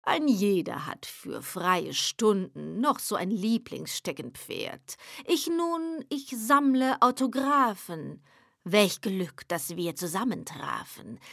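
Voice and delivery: lightly voiced devil with a sly smile; smirking devil. The devil delights in the poet's signed page. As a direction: savor it, pleased and scheming. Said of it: "schmunzelnd sprach er, lustverklärt".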